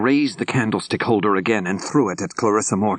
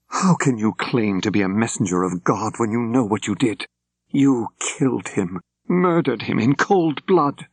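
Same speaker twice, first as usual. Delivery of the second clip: accusing; 4 semitones higher than usual. Acted. Public murder accusation.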